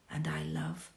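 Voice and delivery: soft, hushed whisper; hushed reverent whisper. Acted. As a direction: whisper it like a secret. Tender hushed confession.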